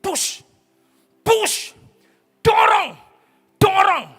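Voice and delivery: high, loud "push, dorong" calls; midwife urging. Retold or imitated. Midwife urging the mother to push, loud high calls. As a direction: urge the mother on. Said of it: "dokter atau bidan ngomong".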